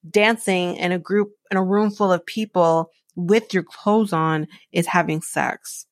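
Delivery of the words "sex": whispered punchline. Real, not acted. Vlogger mocking a reality star's claim, whispered. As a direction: breathe the word out in disbelief.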